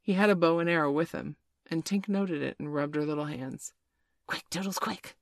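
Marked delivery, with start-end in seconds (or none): 4.3-5.2 hushed, held-back fairy scream; mock scream. A narrator's reading. Tinker Bell urging Toodles to shoot, softened scream. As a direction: urge in a small, softened screech. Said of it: "she screamed".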